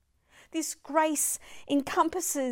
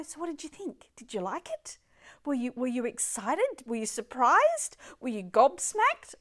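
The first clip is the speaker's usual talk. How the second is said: voicing God eagerly; 5 dB louder than usual. Voicing God asking about gifts.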